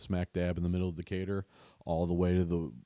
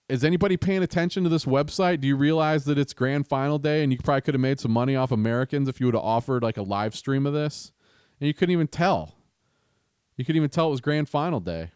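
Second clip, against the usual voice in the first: exasperated rant; 5 semitones higher, 5 dB louder, faster than usual. Real, not acted. Ranting at the league website.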